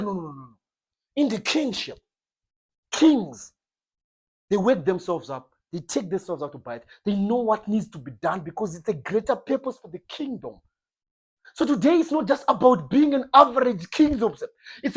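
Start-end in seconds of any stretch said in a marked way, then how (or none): 0.0-10.6 God's gentle correction. Acted. God corrects the believer.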